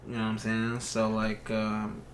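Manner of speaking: soft, breathy sweet talk into the mic; seductive whisper. Pretend. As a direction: murmur it low and soft like a smooth seducer. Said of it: "whisper into the mic, get all seductive".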